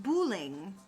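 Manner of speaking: "bowling" said as boo-ling; French pronunciation. Shown as a demonstration. Explaining the French word to viewers, "bowling" as boo-ling. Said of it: "but it's pronounced bowling".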